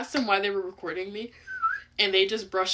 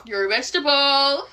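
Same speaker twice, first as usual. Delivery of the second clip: tic outburst; 7 semitones higher, 9 dB louder than usual. Real, not acted. Shouted tic.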